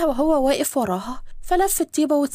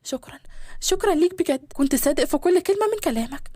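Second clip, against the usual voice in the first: eager gratitude. Acted. Bride running to thank her beloved, eager and moved. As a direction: rush to thank him from the heart. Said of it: "جريت على أشهب بلهفة".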